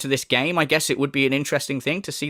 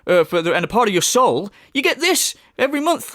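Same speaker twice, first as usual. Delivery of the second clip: mock salesman streamer; 6 semitones higher, faster than usual. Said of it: "navigating the fucking store".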